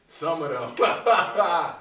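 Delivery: bursting into high laughter mid-sentence; laughing. Real, not acted. Comedian laughing at his own baby-mother joke.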